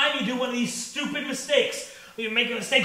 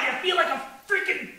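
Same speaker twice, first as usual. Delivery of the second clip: slow exasperated self-insult; self-disgust; slower than usual. Acted. Comic calling himself an idiot, exasperated. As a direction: stretch out each insult.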